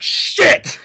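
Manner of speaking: high, loud burst of dismay; mock alarmed outburst. Acting out addicts finding pee in the nest, mock alarm. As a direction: blurt it out as a sudden yell.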